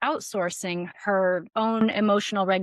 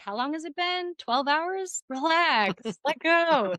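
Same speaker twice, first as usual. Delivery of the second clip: exasperated advice; 5 semitones higher than usual. Retold or imitated. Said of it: "I'm like".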